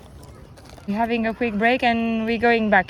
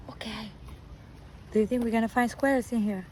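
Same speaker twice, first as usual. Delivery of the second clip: whispering; 2 semitones lower, 7 dB quieter than usual. Real, not acted. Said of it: "We need to whisper".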